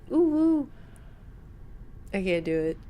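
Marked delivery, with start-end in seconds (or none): 0.1-0.7 cute uwu. Pretend. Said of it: "You're fired".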